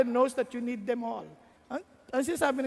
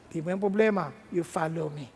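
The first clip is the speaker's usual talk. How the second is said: lightly lower, calm firm answer; voice of God; 6 semitones lower, faster than usual. Acted. God calmly answering the anxious young pastor, a little lower.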